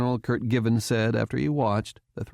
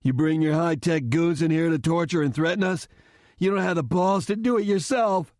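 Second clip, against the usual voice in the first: high-pitched, heated accusation; rising outrage, pitched well up; angry cry; 7 semitones higher than usual. A narrator's reading. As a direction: throw it in his face, indignant. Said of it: "Chastain cried".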